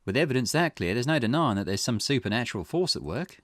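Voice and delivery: lightly voiced investigator, intrigued; Richter. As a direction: think aloud as a curious detective, lightly acted. Voices Richter pondering the curse.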